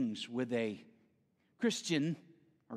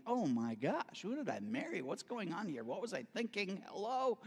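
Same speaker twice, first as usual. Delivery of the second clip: muttered disbelief; 4 semitones higher, 5 dB quieter than usual. Retold or imitated. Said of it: "I'm like".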